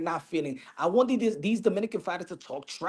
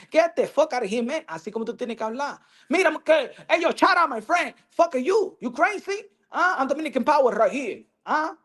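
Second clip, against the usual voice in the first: strut and taunt like a cocky Dominican fighter; trash-talking Dominican fighter; 7 semitones higher than usual. Retold or imitated. Fighter taunting his opponent, brash mock trash talk. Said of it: "Like that".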